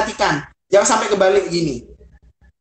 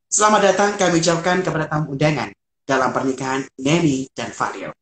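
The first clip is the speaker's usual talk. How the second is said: smiling; 3 semitones lower than usual. Shown as a demonstration. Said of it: "Contohnya seperti ini".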